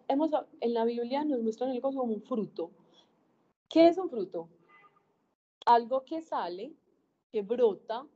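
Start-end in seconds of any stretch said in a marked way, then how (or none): 3.7-4.5 higher, louder teaching question; rhetorical question. Real, not acted. A preacher quizzing her listeners, emphatic. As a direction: ask it to make them think. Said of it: "rhetorical question to audience".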